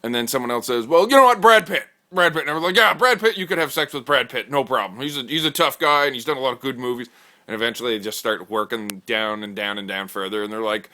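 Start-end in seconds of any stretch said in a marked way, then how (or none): 0.9-7.1 very high, loud eager sell; a guy eagerly pitching to the table, very high and loud; excited bro pitch. Acted. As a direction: jump in excited like a fanboy. Bro pitches Brad Pitt.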